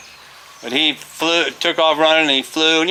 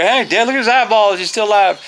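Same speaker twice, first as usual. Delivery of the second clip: retold urgent protest; 9 semitones higher, 4 dB louder than usual. Retold defensive reply to kids.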